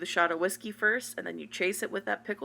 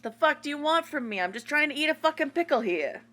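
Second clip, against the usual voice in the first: put-on loud, higher brash New York accent, fast; New Yorker accent; 8 semitones higher, 4 dB louder, faster than usual. Sisters caught eating pickles, answering in loud New York accent. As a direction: snap back in a tough New York accent. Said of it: "our default is New Yorker".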